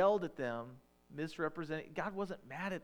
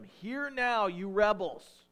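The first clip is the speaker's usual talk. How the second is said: shouted, much higher and louder, slowing on rebels; angry yell; 6 semitones higher, 10 dB louder, much slower than usual. Acted. Moses yelling at the complaining people, furious shout. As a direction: bellow it at the rebels in fury. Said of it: "he proceeds to yell at them".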